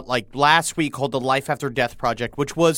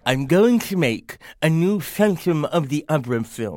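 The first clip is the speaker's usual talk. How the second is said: Ackerman's joke. Retold or imitated. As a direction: tell it like a sly old man. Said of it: "that Oprah joke that he told".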